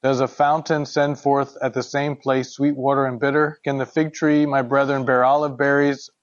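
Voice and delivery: measured, even Bible reading; scripture reading. Acted. Teacher reads James chapter three to the group, measured scripture reading. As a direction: read the verses out steadily and formally.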